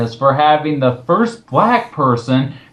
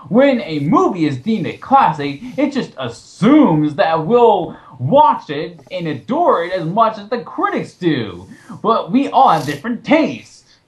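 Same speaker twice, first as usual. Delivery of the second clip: higher sing-song parody of the writer; mocking read of author; 5 semitones higher than usual. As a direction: read his words as a smug caricature. Reading the author's text mockingly.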